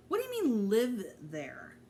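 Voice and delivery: can't believe what he just heard; shocked disbelief. Acted. Shocked friend hears about moving.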